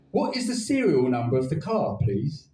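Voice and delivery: lightly voiced robot greeting; flat mechanical robot voice. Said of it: "the robot asked".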